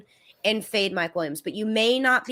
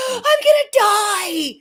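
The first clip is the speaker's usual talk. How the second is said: gasp, then a high, drawn-out wail; acted panicked agony; 13 semitones higher, 7 dB louder, much slower than usual. Acting out sudden rib cartilage pain, panicked wail. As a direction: wail it slowly in mock agony.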